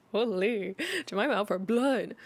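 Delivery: amused aside. Real, not acted. Reader laughs at the story.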